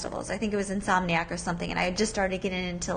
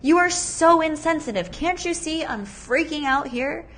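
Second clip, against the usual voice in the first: mock angry; 5 semitones higher, 4 dB louder than usual. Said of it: "so angry".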